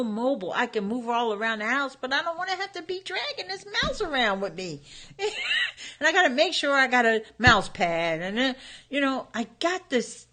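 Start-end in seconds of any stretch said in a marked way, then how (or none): 4.8-5.9 high laugh. Real, not acted. Laughs at own mouse struggle.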